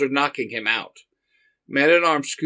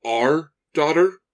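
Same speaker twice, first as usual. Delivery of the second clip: mild surprise; 2 semitones higher, 5 dB louder, slower than usual. Acted. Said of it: "Man-at-Arms demands".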